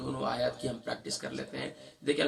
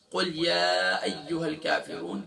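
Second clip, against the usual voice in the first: slow Quran recitation; slower than usual. Shown as a demonstration. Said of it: "recites the verse".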